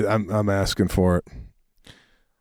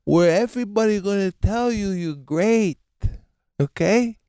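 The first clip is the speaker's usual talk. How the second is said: blunt father; 10 semitones higher than usual. Retold or imitated. Father telling son the coach is paid, blunt. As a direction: imitate dad schooling his naive son in a high voice. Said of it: "He goes".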